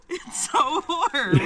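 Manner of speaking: shaky laughing "so warm" while freezing; laughing through the cold. Real, not acted. Shivering in cold water.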